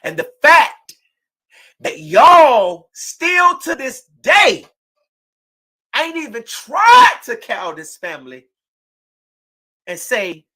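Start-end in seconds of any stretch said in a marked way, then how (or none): 0.0-8.5 slow angry shout. Real, not acted. Mother accusing defendants in court.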